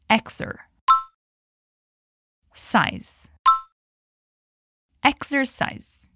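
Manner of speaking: "Exer" then "Size" then "Exercise", split into parts and rejoined; syllable by syllable. Shown as a demonstration. Teacher splits "Exercise" into syllables for students. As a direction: break "Exercise" into syllables, then put it back together. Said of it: "Então, diga comigo".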